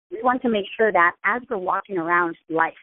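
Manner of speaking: ordinary talk, nothing marked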